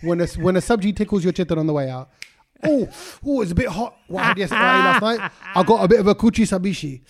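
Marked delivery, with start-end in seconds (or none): 2.6-7.0 higher, louder mock complaint; mock complaining. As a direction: ham up a man with an upset stomach. Acting a man with stomach trouble.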